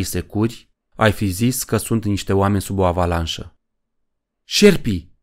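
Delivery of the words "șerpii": high-pitched shouted order; roared command. A narrator's reading. Poe unleashing the snakes at the rocket, high roared command. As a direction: call it out hard, pitch jumping up. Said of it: "răcni Poe".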